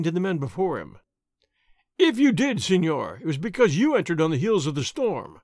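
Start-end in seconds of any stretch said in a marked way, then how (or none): 2.0-5.4 retorting. Acted. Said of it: "the sergeant retorted".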